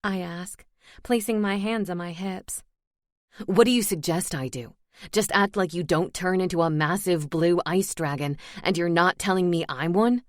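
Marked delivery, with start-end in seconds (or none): 3.4-10.2 lower, dry sarcastic male voice. Acted. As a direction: sneer it back, sarcastic. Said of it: "he asks me sarcastically".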